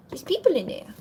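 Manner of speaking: unvoiced whisper to the dog. Real, not acted. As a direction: lean in and whisper it.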